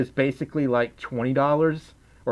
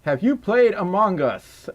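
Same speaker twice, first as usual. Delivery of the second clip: higher-pitched southern accent; 4 semitones higher than usual. Shown as a demonstration. Streamer reads a viewer's question in a southern accent. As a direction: read it with a put-on southern lilt. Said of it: "I'm gonna do more southern accents".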